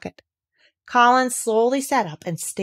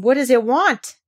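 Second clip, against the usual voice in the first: higher, louder eager question; eager cry; 5 semitones higher, 6 dB louder than usual. Acted. Colin to Dickon about the lamb, eager cry. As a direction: ask it bursting with curiosity. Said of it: "cried Colin".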